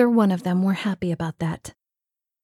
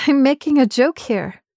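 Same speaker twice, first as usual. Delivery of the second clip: louder, higher exasperated jab; 5 semitones higher, 4 dB louder than usual. Acted. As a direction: push the joke, fed up. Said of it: "sighed with exasperation".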